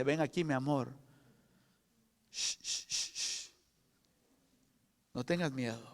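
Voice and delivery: hushed, soft mother's comfort with long shh sounds; mother's whisper. Retold or imitated. Mother calming her scared child with a soft whisper. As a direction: soothe a frightened child in a whisper. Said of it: "la madre viene y dice".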